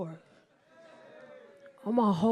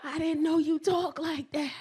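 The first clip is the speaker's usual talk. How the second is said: imitating his wounded shock, raised voice; mock hurt, pitched up and louder; heartbroken boyfriend; 5 semitones higher, 3 dB louder than usual. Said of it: "He was heartbroken".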